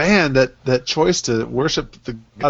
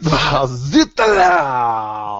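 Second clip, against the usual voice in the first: very slow hammy French exclamation; French accent; 2 semitones lower, much slower than usual. Pretend. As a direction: drag it out like a taunting Frenchman. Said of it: "the Frenchman from Monty Python".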